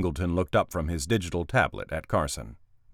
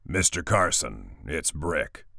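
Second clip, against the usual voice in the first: ruined voice; 3 semitones lower, slower than usual. Acted. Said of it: "a ruined voice crackled".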